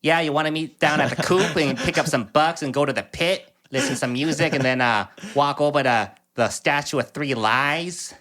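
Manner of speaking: put-on thick Boston accent, dropped r's. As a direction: talk like a Boston local. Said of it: "Is that your Boston accent?".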